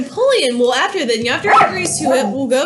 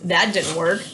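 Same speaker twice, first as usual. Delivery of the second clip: lower, deflated admission; sheepish Madison; 7 semitones lower, 5 dB quieter, slower than usual. Retold or imitated. Madison admits his plan failed, low and sheepish. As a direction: mumble the failure sheepishly. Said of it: "Madison has to go".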